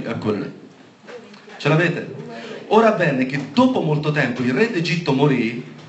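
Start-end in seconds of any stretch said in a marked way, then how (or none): 2.7-5.7 unhurried proclamation to the congregation; deliberate scripture reading. Real, not acted. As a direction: read the verse out at a measured pace. Rilegge il versetto alla chiesa. (lettura solenne e scandita)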